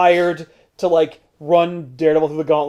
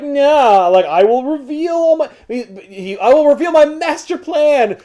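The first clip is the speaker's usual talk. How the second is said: villain voice; 9 semitones higher, 4 dB louder than usual. Retold or imitated. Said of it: "Mysterio's like".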